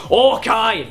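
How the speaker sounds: drawn-out mock film-Scottish cry; Fat Bastard Scottish accent. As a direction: imitate an over-the-top Scottish accent. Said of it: "like Fat Bastard goes".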